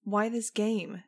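slow, loud shout; shouted at top of voice. A narrator's reading. Max shouting at Jeb, slow and loud. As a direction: hurl the question at him.

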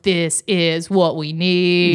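drawn-out, weighty delivery; slow retold reverence. Recalling a bus booing a ranter, slow approval. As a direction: stretch each word slowly for emphasis. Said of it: "I was like".

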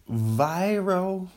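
high, mock-excited exclamation; excited mimicry. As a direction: imitate someone thrilled, pitch climbing high. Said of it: "someone gets really excited and they go".

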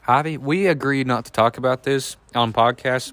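talking through ice cream; words round a mouthful; mouth full. Real, not acted. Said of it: "I have ice cream in my mouth right now".

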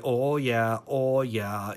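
lightly mimicked Maine or Boston accent; mock a New Englander's "oh, yeah"; Northeastern accent. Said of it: "And yes, she had the accent".

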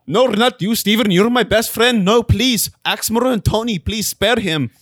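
hammed-up hostage-scene plea; desperate pleading. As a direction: beg for a friend's life, playing it up. Pleading for friend's life in skit.

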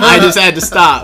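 lips shaking from the heat; mouth burning from spicy food. Real, not acted. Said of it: "my lips are, like, shaking".

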